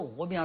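鹅苗 for 禾苗, no h sound; Changsha pronunciation. Shown as a demonstration. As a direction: demonstrate 鹅苗 in Changsha dialect. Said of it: "长沙话就斗鹅苗". (长沙话“鹅苗”，不发h音)

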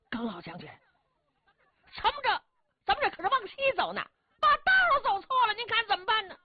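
very high, thin, fretting official voice; whiny high official. A narrator's reading. Official telling the old general they're lost, very high and whiny. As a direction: squeak out the alarm to the old general, rushing.

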